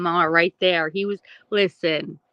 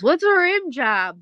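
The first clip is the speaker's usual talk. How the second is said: put-on child's question; 8 semitones higher, 5 dB louder than usual. Nephew quoted in story.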